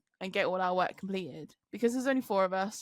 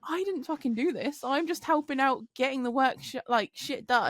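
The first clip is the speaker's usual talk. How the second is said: protesting; 5 semitones higher than usual. Retold or imitated. Retelling own protest under attack.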